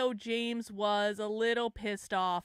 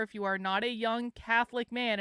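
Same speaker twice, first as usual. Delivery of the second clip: CATHOLIC picked out as the key word; stress on Catholic; 2 semitones lower than usual. Real, not acted. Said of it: "I emphasize Catholic".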